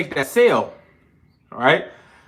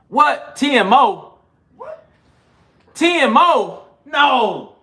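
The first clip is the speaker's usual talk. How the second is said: surprised; 8 semitones higher, 3 dB louder, much slower than usual. Real, not acted. Reacting to a surprising comment.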